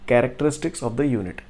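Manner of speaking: slow, word by word; slow dictation. Shown as a demonstration. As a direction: spell it out slowly for the class. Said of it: "जो next question है वो हमसे बोल रहा है".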